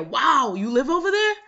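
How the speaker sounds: high, astonished question from the coworker; shocked coworker. Retold or imitated. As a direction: coworker amazed where the speaker lives, voiced high and stunned. Coworker shocked at rich address.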